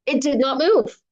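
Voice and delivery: plain reading voice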